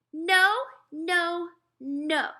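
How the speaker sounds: put-on high, loud toddler yelling no, fading; a tantrum-throwing little kid; toddler shouting. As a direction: toddler refusing food at mother, shouting. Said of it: "Fudge shouted".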